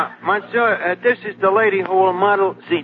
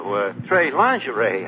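mock French; 8 semitones lower, slower than usual. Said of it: "I'm supposed to be the Frenchman".

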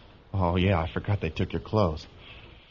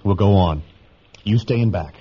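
raised voice; 8 dB louder than usual. Acted. Boy speaks up over the truck.

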